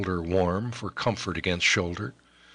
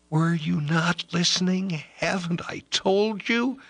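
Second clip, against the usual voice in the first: put-on frantic young lover. Ellis pleads with Eliud about the girl he loves, frantic and impassioned. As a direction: pour it out like a man lovesick and desperate. Ellis insists on being heard.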